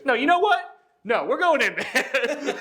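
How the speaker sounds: high-pitched defiant outburst, laugh creeping in; mock trash talk. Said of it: "writing these shit-talking letters".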